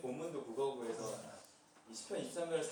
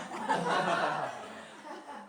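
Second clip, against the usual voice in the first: laughing; 4 dB louder than usual. Real, not acted. Laughs mid-reading.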